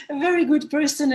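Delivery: said through a laugh. Real, not acted. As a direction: laugh while praising him. Laughs about the old master.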